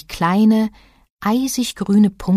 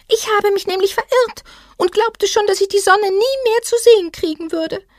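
melancholy little creature. A narrator's reading. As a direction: sound a bit gloomy and small. Voices the small creature.

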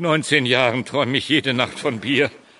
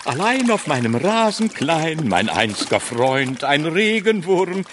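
hammy stage actor. Acted. Hermit declaims a poem on turf.

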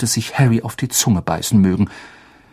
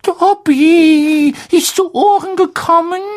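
hoarse voice; 5 dB louder than usual. Acted. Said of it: "sagte er mit heiserer Stimme".

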